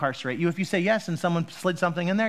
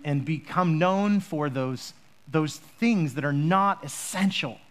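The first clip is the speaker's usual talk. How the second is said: prayer. Acted.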